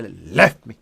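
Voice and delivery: "Left me" low, with a rise on "left"; dismissive "left me". Shown as a demonstration. Teacher showing how to rebuff a vendor, dismissive. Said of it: "you have to say it with, like, a little".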